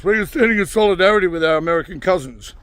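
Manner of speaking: lightly voiced smug protester, a touch of mockery; mocking protesters. Vlogger mocking UK protesters, lightly voiced smug marcher. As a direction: sneer it out as a self-important marcher. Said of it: "morons here protesting No Kings".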